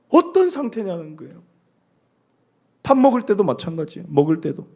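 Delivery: ordinary talk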